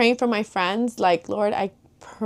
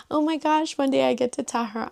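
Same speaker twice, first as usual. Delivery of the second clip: excited realization; 6 semitones higher than usual. Retold or imitated. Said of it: "tripped me out of nowhere".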